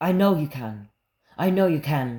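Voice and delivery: attempted, put-on Egyptian accent. Mid-conversation, the speaker tries to do an Egyptian accent. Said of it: "I'm trying to do the Egyptian accent".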